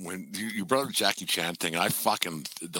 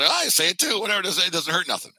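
lightly voiced Jackie Chan, higher and carefree; imitating Jackie Chan; 7 semitones higher, 3 dB louder than usual. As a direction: shrug it off with a raised, easygoing voice. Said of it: "so he thought".

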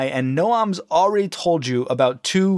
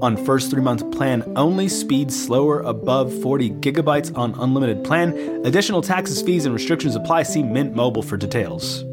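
fast legal disclaimer; 2 semitones lower, faster than usual. Acted. Fine print after the ad.

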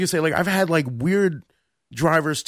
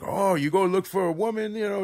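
put-on higher-pitched, light Indian accent; 4 semitones higher than usual. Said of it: "I don't wanna do the accent".

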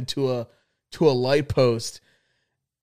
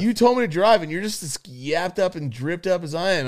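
retold indignant protest; 5 semitones higher than usual. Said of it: "I was like".

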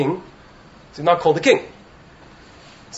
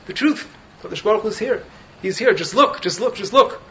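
higher, urgent plea without volume; imitating an insistent inner voice; mock screaming out; 5 semitones higher than usual. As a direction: cry out insistently, only half-projected. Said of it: "this neshama is screaming out".

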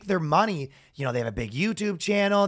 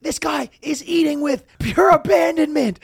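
higher, louder hype call; announcer yell; 10 semitones higher, 4 dB louder than usual. Retold or imitated. Announcer hyping an eater to the crowd, high and loud. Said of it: "he's yelling, he goes".

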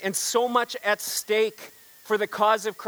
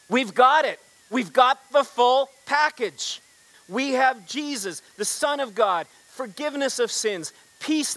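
fervent proclamation; 4 semitones higher than usual. Real, not acted. Passionate preaching of the gospel.

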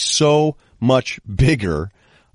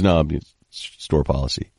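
stickler clerk; 6 semitones lower than usual. Retold or imitated. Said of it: "He goes".

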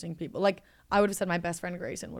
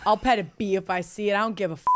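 straight man voice; faster than usual. Shown as a demonstration. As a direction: read it like a careless straight guy. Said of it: "Now here's the man".

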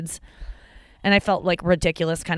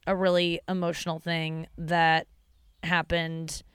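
flat robot voice, fading softer; 4 dB quieter than usual. Real, not acted. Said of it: "I'm getting, like, robot voice".

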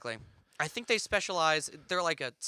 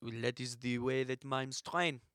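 put-on French accent; 2 semitones lower than usual. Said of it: "my French accent isn't that good".

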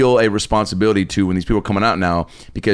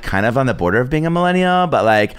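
put-on girl voice. Shown as a demonstration. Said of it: "Every guy makes us sound like that".

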